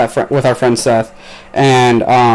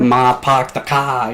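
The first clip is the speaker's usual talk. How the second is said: slow Boston accent with dropped R's; slower than usual. Shown as a demonstration. Showing off a Boston accent to a friend, slow Boston drawl. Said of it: "like, a Boston accent".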